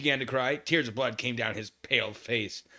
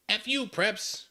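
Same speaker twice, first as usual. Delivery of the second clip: sneering, higher pitched; snotty teen sneer; 10 semitones higher, slower than usual. Acted. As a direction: spit it at the preps. Reading misspelled fanfic line.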